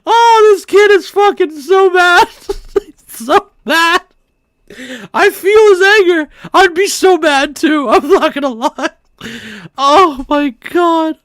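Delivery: high squeal through laughter; hysterical laughter. Real, not acted. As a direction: choke the words out while cracking up. Laughing at the kid's anger.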